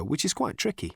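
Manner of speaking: ordinary talk, nothing marked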